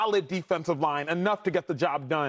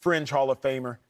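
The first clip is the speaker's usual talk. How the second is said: "Fringe" hit hard, then "Hall of Famer" leaned on too; both "Fringe" and "Hall of Famer" stressed, the rest light; 4 semitones lower than usual. Shown as a demonstration. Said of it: "Emphasis on the word fringe".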